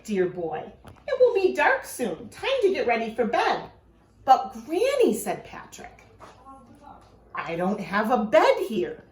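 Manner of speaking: lively bedtime storybook read; animated picture-book reading; reading to children. Acted. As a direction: read it to a class of kids. Teacher reads picture book aloud.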